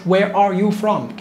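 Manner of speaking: Where are you from stretched out word by word; the wrong, overly careful way; too slow. Shown as a demonstration. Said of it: "كده احنا بنبطئها قوي".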